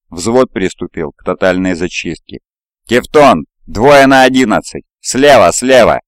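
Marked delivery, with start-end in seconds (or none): 2.9-6.0 urgent excited yell; excited shout. A narrator's reading. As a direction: warn him sharply, loudly. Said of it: "Чей-то возбуждённый крик".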